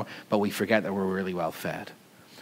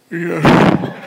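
high, loud burst of inner triumph; gleeful yeah; 8 semitones higher, 7 dB louder than usual. Retold or imitated. Speaker gloating inwardly as the queue jumpers are skipped, gleeful. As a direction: crow it to yourself.

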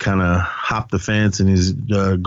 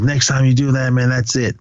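slightly higher retold warning; mild mock threat; veiled threat; 4 semitones higher than usual. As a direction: lightly act out a final warning. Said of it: "Basically just threatening him, but not threatening him".

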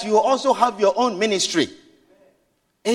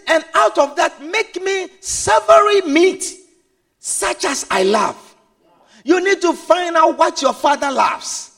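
Isaac asking for meat; 3 semitones higher than usual. Acted. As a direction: fade to a dying blessing. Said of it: "He says".

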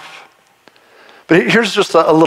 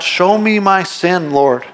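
slow prayer; 3 semitones higher, much slower than usual. Shown as a demonstration. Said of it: "Ask God".

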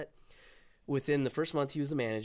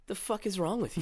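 higher, laughing imitation of an exasperated stepdad; mock angry stepdad; 8 semitones higher than usual. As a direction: play the stepdad, half laughing. Stepdad reacts to Army news.

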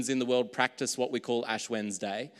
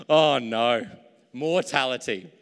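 mock realising the slip; 8 dB louder, slower than usual. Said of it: "You all knew what I was talking about".

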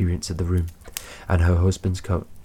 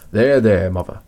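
hasty reassurance, loud at first; 6 dB louder than usual. A narrator's reading. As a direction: cut in quickly to calm her. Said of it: "he said hastily".

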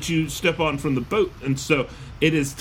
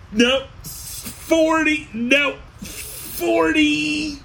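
sudden high yell; 9 semitones higher, much slower than usual. Real, not acted. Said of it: "Why am I yelling?".

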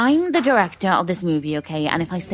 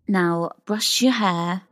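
soothing; slower than usual. Acted. Directing a calm scene.

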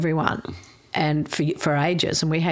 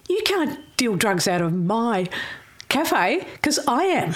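1 retold protest; 5 semitones higher than usual. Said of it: "Brownie's going".

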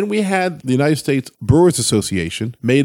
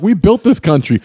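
mock bigot voice; 6 semitones higher, 4 dB louder than usual. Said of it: "They're like".

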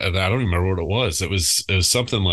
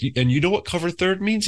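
incredulous yell; 12 semitones higher than usual. Retold or imitated. Coach scolding son retold.

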